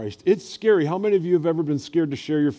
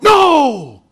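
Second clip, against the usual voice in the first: high loud shouted no; loud high shout of pain and reproach; sharp no; 12 semitones higher, 14 dB louder than usual. Retold or imitated. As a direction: stop the child cold. Scolding the biting grandson.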